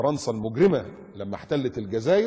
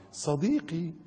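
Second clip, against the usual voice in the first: higher coy answer; mock simpering goat; 4 semitones higher, much slower than usual. The goat replies to the sheep on radio, mock simpering. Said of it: "تروح المعزة رد عليه".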